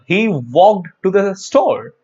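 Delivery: He walked to the store, said very slowly and clearly; slow example sentence for the class; example read slowly. Shown as a demonstration. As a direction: spell out the example word by word. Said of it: "look at this here".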